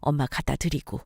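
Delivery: calm, tender confiding; subdued, motherly reassurance; warm mother-in-law. Acted. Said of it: "어머니의 따뜻한 말".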